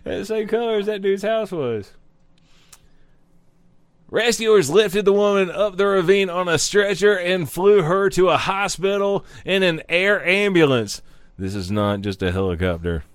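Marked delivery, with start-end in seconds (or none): 4.1-11.0 news read. Acted. Reading news article aloud.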